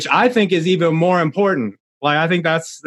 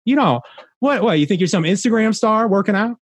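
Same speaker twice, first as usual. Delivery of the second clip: mildly mocking, put a challenge into the questions; needling self-doubt, lightly acted; inner hater voice; 4 semitones higher than usual. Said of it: "that little hater voice".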